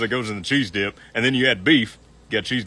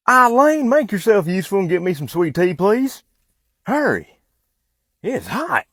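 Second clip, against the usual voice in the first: high, raised-voice order; impatient calling out; 9 semitones higher, 5 dB louder than usual. Acted. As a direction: call across to someone, pitched high and insistent. Impatiently calling out for sweet tea.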